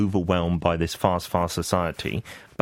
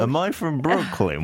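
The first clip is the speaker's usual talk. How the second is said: mock Brooklyn accent; 5 semitones higher than usual. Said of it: "what is this accent you're doing".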